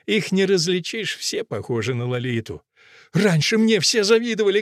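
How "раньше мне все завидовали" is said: high, mildly shouted boast; Fusia. A narrator's reading. Fusia recalls being envied, crying out high. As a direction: cry it out with raised pitch. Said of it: "кричит Фуся".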